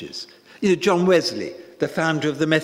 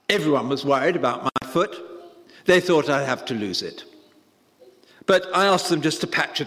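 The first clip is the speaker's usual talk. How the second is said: put-on firm, louder old soldier's voice; military voice; 4 dB louder than usual. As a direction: speak like a commanding old general. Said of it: "in his very military voice".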